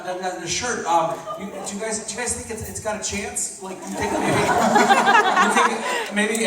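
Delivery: gently mock a friend's timid hopefulness; hopeful pleading. Friend asking if the stained shirt has a chance, mock pleading.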